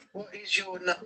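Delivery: soft hushed question to a spirit; talking to a ghost. Real, not acted. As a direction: ask the spirit gently and quietly. Asking spirits, ghost hunt.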